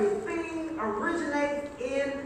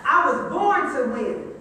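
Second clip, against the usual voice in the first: booming motivational speech; 4 dB louder than usual. Acted. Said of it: "like you really know it".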